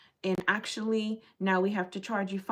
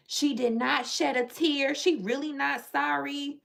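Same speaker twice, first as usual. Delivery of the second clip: tag along critic; 5 semitones higher than usual. Pretend. Voicing critics of her apology.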